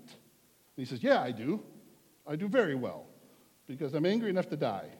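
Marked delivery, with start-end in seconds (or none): 1.0-4.9 a hint of a sulky, defiant Jonah; mock-petulant retort, louder; lightly voiced overdramatic sulk. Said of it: "Jonah's being a little overdramatic".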